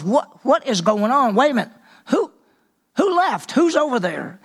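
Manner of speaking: baffled king demanding answers; confused alarm. Retold or imitated. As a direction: voice leaping high on who left. Saul shocked at missing soldiers.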